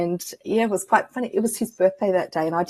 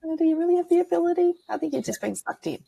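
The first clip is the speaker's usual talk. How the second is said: quick, high, mocking doubtful voice; doubting relative; 10 semitones higher, faster than usual. Imitating doubtful Catholic family questioning her ability, mock skeptical. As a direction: skeptical family member brushing off her gift. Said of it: "there was seeds of doubt around".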